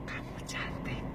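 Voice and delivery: soft whisper "Kamu cantik"; whispered compliment. Shown as a demonstration. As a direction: breathe the words close. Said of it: "Mana yang akan lebih kuat".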